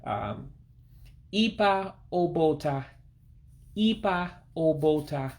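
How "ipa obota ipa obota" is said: ipa obota said slowly, high on the ee; careful, higher model of ipa obota, repeated; high-pitched I. Shown as a demonstration. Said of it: "real high-pitched I-like sound".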